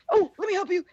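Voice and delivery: high, eager little helper voice; Neville helping. Retold or imitated. Healer sneaking help to the injured, eagerly helpful.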